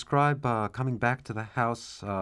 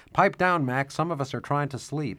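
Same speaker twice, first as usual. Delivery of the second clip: higher, louder call that settles on the rest; annoyed fellow prisoner; 4 semitones higher, 3 dB louder than usual. Acted. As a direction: yell at the noisy cellmate to shut up. Prisoner yelling from another cell.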